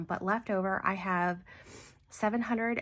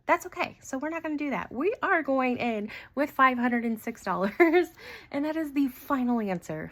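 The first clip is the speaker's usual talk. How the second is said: excited relief; 5 semitones higher, 5 dB louder than usual. Real, not acted. Decides happily, laughing.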